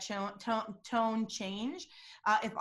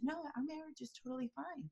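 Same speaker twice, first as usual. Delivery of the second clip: hushed, higher-pitched reassurance; soft denial; 5 semitones higher, 9 dB quieter than usual. Retold or imitated. Imitating a singer insisting the marriage is fine, very soft. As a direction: drop the volume to deny it softly. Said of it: "voice went down really soft".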